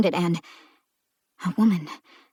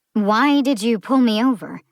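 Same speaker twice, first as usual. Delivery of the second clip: raised, firmer repeat of the question; insistent repeat; 4 semitones higher, 5 dB louder than usual. Acted. Driver repeating herself to the cop, insistent. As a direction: press him for an answer. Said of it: "Eve repeated herself".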